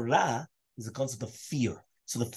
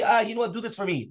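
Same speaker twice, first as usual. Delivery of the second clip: higher-pitched acted request; casual favour-asking; 8 semitones higher than usual. Someone pretending to ask a favour for himself, high-pitched acted voice. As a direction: ask a favour in a raised, put-on voice.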